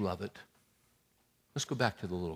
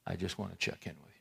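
quiet prayer; 4 semitones lower, 8 dB quieter than usual. Pretend.

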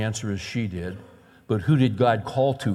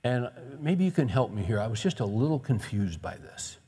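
calm, not angry; 5 dB quieter than usual. Retold or imitated. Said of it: "I wasn't mad, I wasn't angry".

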